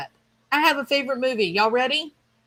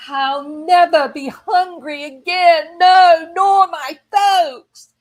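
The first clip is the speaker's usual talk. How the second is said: put-on higher, louder, in a British accent; 7 semitones higher, 10 dB louder, slower than usual. Quoting Scarlett O'Hara's vow, British-accented theatrics. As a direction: declaim it in an old-film British accent. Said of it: "I don't know why that came out British".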